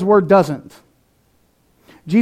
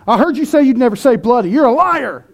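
higher-pitched playful accusation; hammed-up gotcha; mock accusation; 4 semitones higher than usual. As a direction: catch a friend out, voice raised in pitch. Acted friend accusing him of lying.

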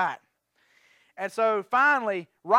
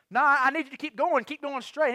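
higher, urgent mock demand; imitating agitated insistence; 5 semitones higher than usual. Hitchhiker refusing to get out, imitated as agitated. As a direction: push the pitch up and insist. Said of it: "He gets, like, agitated".

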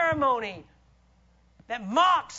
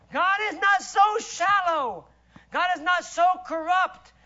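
forceful shout; 4 semitones higher, 4 dB louder than usual. Real, not acted. Preacher's emphatic declaration.

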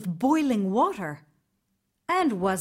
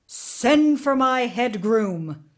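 slow, firm royal command, a bit louder; 3 semitones higher, 4 dB louder, slower than usual. Acted. Tsar commanding his servants, slow and firm. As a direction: summon the groom with slow authority. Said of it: "he commanded".

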